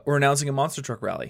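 fast, punchy announcer hype; monster truck ad. Pretend. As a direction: pitch it like a monster truck rally ad. Hyping up a monster truck rally.

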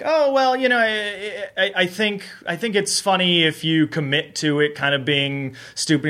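high-pitched, stammering mock diplomacy; placating. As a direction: imitate a writer gingerly defending a joke. Retold placating of a doubtful host.

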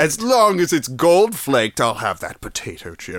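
lightly put-on picky rich man; rich person voice. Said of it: "back to my poor person voice".

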